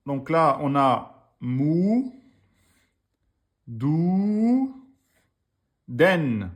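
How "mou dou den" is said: slow \"mou, dou, den\", each syllable separated. Shown as a demonstration. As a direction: drag out \"mou\", \"dou\", \"den\" one at a time. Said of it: "Trois syllabes".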